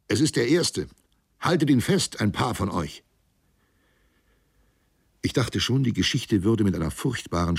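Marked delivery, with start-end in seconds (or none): 0.1-3.0 höher gerufene Anweisung; zugerufen. A narrator's reading. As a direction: den Männern laut zurufen. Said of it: "Ich rief ihnen zu". (Kapitän ruft der Mannschaft zu, höher)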